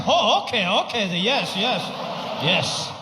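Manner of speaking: lightly voiced dad catching on. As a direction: nod along like the old father. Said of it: "He's like".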